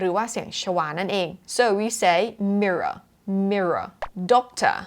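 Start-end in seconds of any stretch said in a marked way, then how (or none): 2.6-4.8 'mirror', 'doctor' ending in a relaxed 'uh'; schwa ending. Shown as a demonstration. Teacher explaining final R to learners, 'mirror' ending in schwa. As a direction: drop the last R of 'mirror' and 'doctor'. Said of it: "แล้วเราก็จะทิ้งมันด้วยเสียง เออ".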